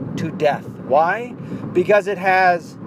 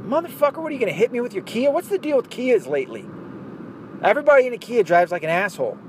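put-on higher, fast Scottish accent rant; Scottish dad impression; 7 semitones higher, faster than usual. Imitating Gavin McInnes's Scottish dad, ranting about Kia drivers. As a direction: rattle it off like a cranky Scottish dad. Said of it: "Gavin McInnes's impression of his father".

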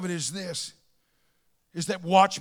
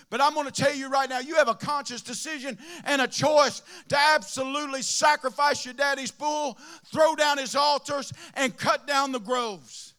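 preaching; 3 semitones higher than usual. Acted. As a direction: shout it to the whole house. Preaching at full force.

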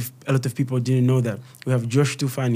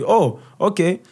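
mock impressed parent; 6 dB louder than usual. Parent suddenly impressed by a football star. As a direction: play the parent suddenly won over. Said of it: "waona ti".

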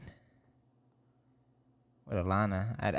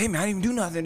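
light high pleading voice; 8 semitones higher, much faster than usual. Retold or imitated. Voicing the pervert high.

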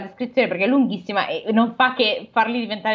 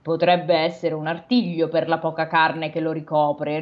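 melancholy; 5 semitones lower than usual. Acted. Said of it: "rispose malinconico lo spirito".

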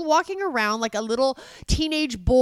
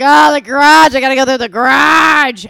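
very loud hammed-up groan of complaint; imitating a partner's moaning, at full volume; mock wailing; 4 semitones higher, 14 dB louder than usual. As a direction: bellow it like an overburdened whiner. Mocking partner's moaning over garage.

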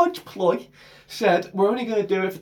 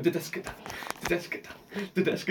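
quiet train chant; 3 semitones lower, 12 dB quieter than usual. Retold or imitated. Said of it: "on my own going".

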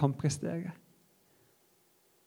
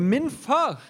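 crying out; 7 semitones higher, 5 dB louder than usual. Acted. Jesus begs his Father in the garden, crying out. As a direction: cry out in earnest pleading to a father. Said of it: "hører slangen noen som roper fra dypet av sitt indre".

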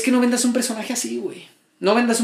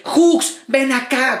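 mock angry yell; 4 semitones higher, much slower than usual. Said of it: "cuando se emputaba".

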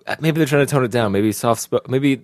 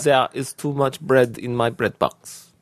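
clipped, slow German with "zere" for "There"; staccato German accent; slower than usual. Shown as a demonstration. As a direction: tap out each word in German style. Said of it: "that's very staccato still".

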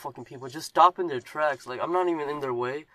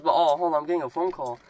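imitating Ron; 3 semitones higher, 5 dB louder than usual. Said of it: "he just goes".

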